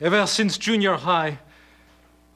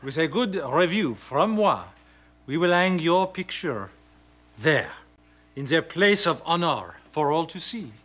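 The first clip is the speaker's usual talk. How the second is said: put-on phony French accent. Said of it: "a phony accent like this".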